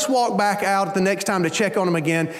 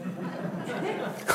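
dog's knowing laugh; 3 semitones higher, 13 dB quieter than usual. Retold or imitated. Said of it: "Molly goes".

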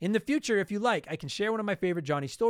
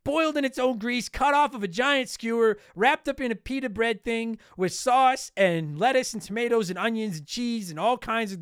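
mock angry rant; 5 semitones higher than usual. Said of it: "I'm so sick of people giving me shit".

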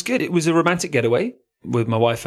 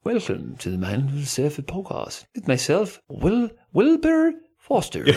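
put-on a posh intro whose accent runs away upward; wandering put-on accent; 5 semitones higher than usual. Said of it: "Where's my accent going there?".

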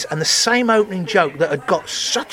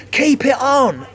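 imitated heckle; 5 semitones higher, slower than usual. Audience heckles about fur hat.

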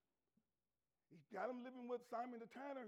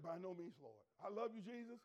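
tender refusal; 4 semitones lower than usual. Acted. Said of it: "And Peter said".

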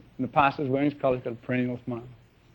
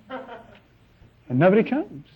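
dramatic slow reveal; 5 semitones higher, 5 dB quieter, much slower than usual. Real, not acted. Dramatic punchline of the story.

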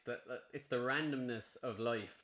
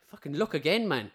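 raised, louder mock shout from a stranger; retold shout; 4 semitones higher, 7 dB louder than usual. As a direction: bark the warning across the water. Stranger shouting about the car.

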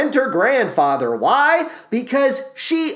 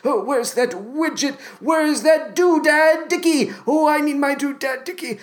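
put-on batty old man fretting to himself, high-pitched; high, dotty self-talk impression; Forrest Whitaker; 7 semitones higher than usual. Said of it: "he's just talking to himself".

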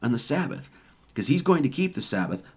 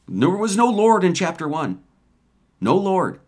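higher and louder, NO punched; emphatic preaching; 6 semitones higher, 4 dB louder than usual. Real, not acted. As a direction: drive it home to the congregation.

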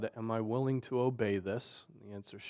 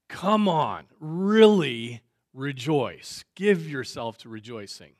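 urging Paul; 11 dB louder than usual. Retold or imitated. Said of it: "Paul is like".

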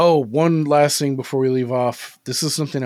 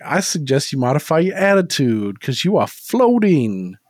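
lightly hammed-up tough detective quote; mock movie-cop threat; movie detective line; 4 dB louder than usual. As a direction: deliver the threat with relish, louder at the end. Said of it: "He's got an awesome line where he, he's like".

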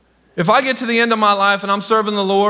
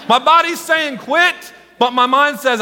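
mock strained runner; 6 semitones higher than usual. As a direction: sound worn out. Playing the tired runner.

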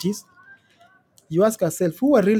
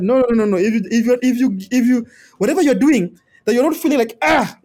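emphatic; 6 semitones higher, 5 dB louder than usual. Real, not acted. Mother's pain rule, emphatic.

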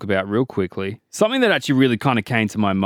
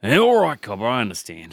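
hammed-up Aussie outback voice, fumbling the place name; a bushman tripping over his words in thick Aussie; broad Aussie bushman. Bushman tells the cop where he's from, thick Aussie accent. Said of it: "the accent is, uh, throwing me off".

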